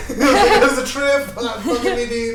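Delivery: cracking up, pitch shooting up; high, giddy laughing delivery. Real, not acted. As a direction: laugh through the words. Cracking up over quitting the book.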